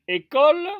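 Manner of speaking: "École" split into three clear syllables, é-co-le; syllables spelled out. Shown as a demonstration. Teacher to students: "École" in three distinct syllables. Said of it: "trois syllabes".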